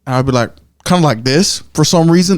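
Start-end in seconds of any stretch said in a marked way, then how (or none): 0.8-1.6 light country-accent monologue; a touch of country twang. Shown as a demonstration. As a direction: slip into a mild country accent. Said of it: "like, a country accent".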